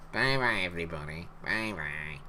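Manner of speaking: a hint of the old Sooty sign-off; Sooty goodbye. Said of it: "No, that was Sooty".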